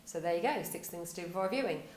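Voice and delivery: throwaway sign-off, tailing away; falling off at the end. Shown as a demonstration. Demonstrating a weak blog ending to viewers, falling off at the end. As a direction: let it drop away as if that is all. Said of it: "just fall off the end of a cliff".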